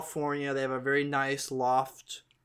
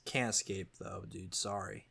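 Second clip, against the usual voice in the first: low deadpan dude; 6 semitones lower, 11 dB quieter than usual. Acted. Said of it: "they're like".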